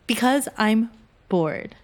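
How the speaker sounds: BORED drawn out slowly, falling; slow, insistent repeat landing low on BORED; deliberate insistence. Acted. Covering a slip to a roommate, BORED said slowly and insistently.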